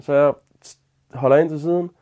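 ordinary delivery

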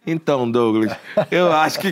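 imitated long-winded voice note; mock rambling audio message; rambling at double speed. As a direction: mimic a friend still getting to the point. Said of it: "Aí na velocidade dois ele tá".

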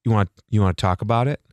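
lightly voiced creepy TV host hitting on a guest; creepy Ryan Seacrest. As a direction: slide it in low like a sleazy host. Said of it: "creepy dude".

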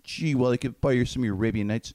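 put-on a light Beaver kid voice; lightly voiced boyish Beaver; Beaver impression. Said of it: "But Beaver's the main one".

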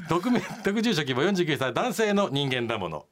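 measured, dramatised radio read; letter reading. Acted. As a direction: narrate a listener's grievance with storyteller's timing. Reads listener's letter aloud.

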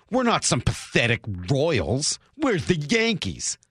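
mock-arrogant Yankees fan; cavalier arrogance. Host imitating entitled Yankees fans for his co-host, mock arrogance. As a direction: look down on the lesser team, slowing on the boast.

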